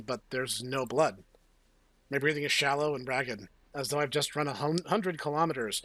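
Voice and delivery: lightly dramatic first-person reading; story narration. A narrator's reading. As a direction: read it out like a tense novel. Reads the game text aloud.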